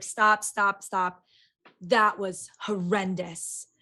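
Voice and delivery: slow, weighty condemnation; retold harsh verdict. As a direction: imitate a director's damning, drawn-out verdict. Retelling a director's harsh criticism.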